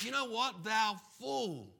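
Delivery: a touch of stern divine judgement; God's verdict. Acted. God telling the rich fool his time is up, stern. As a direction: pronounce the sentence firmly. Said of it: "And then God says".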